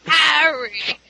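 acted-out breathy utterance; breathed name. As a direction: breathe the name out like written stage action. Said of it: "she's acting out the text".

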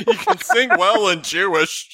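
put-on thick, slow Yiddish accent. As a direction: say it like an old Yiddish grandma. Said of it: "in a very thick Yiddish accent".

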